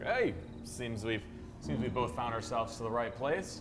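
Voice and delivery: slow, sly friendly opener; a lightly voiced smooth talker; casual bluff. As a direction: play it cool and smooth. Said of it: "I'm gonna glance over like".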